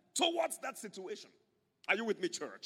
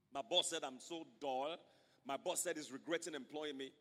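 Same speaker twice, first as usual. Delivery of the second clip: self-pitying worker; 2 semitones lower, 4 dB quieter than usual. Retold or imitated. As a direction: sink into quiet self-pity, deflated. Self-pitying worker voiced, low and soft.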